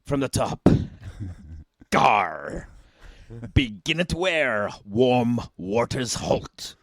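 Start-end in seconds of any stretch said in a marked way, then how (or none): 1.9-6.8 pirate voice. Pretend. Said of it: "have you got a pirate voice".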